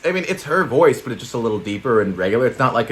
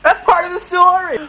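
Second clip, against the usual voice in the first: mocking, laughing; 4 dB louder than usual. Mocking cohost's excuse.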